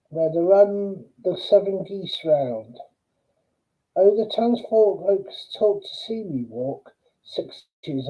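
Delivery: measured verse reading with pauses after lines; poem recitation. Acted. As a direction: recite the poem line by line, letting each phrase fall at its end.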